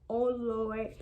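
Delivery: breathy whispered dismay; whispered oh Lord. Retold or imitated. Dad taking in the news, whispered dismay. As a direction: whisper it under your breath. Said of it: "he was like".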